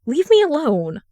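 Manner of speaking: harsh, strained plea. A narrator's reading. Darling harshly pushing the voice out of his head. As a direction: snap it at the intruder. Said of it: "Darling says harshly".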